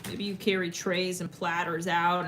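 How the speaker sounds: ordinary delivery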